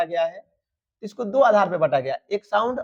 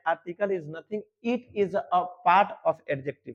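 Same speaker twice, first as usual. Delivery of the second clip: slow dictation; much slower than usual. Shown as a demonstration. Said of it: "फिर से सुन लो".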